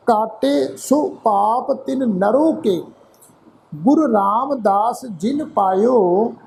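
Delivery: measured, drawn-out reading of Gurbani verse; slow scripture recitation. Shown as a demonstration. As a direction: recite each phrase slowly with pauses. Recites the last savaiya again.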